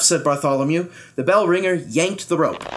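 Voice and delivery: usual speaking voice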